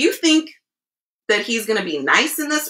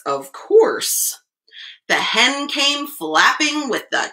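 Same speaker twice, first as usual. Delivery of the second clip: expressive storyteller with stretched key words; picture-book reading; 3 semitones lower than usual. A narrator's reading. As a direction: read the rhyme aloud to small children. Reads picture book to children.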